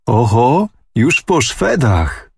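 a high, airy toss-off, then slowing; breezy dismissal, lightly drawn out; offhand. A narrator's reading. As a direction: say it as if it were nothing. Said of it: "zawołała z niechcenia".

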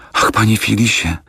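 a lifted, pleading cry of his name; tearful exclamation. A narrator's reading. Young widow pleading with Fogg, a mild tearful cry. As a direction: call out to him, near tears, but understated. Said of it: "zakrzyknęła młoda pani".

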